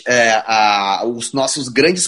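slow, teasing drawn-out delivery; slow buildup. Acted. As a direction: stretch it out for suspense.

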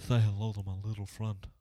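put-on half-hearted Cuban gangster accent, at normal pitch; a weak second try at the Cuban mobster accent; terrible gangster accent. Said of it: "I'm gonna stop the accents".

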